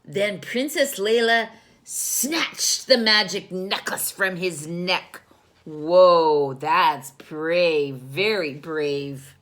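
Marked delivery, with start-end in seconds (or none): 5.6-9.3 amazed whoa. Real, not acted. Narrator amazed aside.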